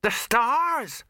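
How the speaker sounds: put-on high, loud boy's cry; shouted. A narrator's reading. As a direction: shout it out in excitement, pitched high. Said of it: "shouted the boy".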